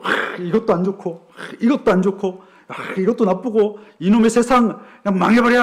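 mock exasperated griping, fast; lightly acted fed-up prophet; grumbling complaint. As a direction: rattle off grievances with sighing irritation. Acting out the prophet's old complaining.

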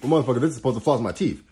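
fast, emphatic "motherfucker" payoff; worked-up punchline. Real, not acted. Astrologer clinching her point, fast and emphatic. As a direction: slam the point home quickly. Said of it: "I'm getting a little worked up".

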